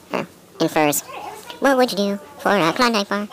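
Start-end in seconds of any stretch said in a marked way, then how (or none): 1.6-3.3 slow, drawn out tagline; slow slogan read. Acted.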